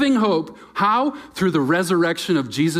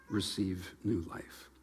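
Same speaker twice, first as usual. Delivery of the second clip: softer, slower, almost hushed; 6 semitones lower, 12 dB quieter, slower than usual. Real, not acted. Pastor urging the church to receive, softly and slowly. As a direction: let it settle gently.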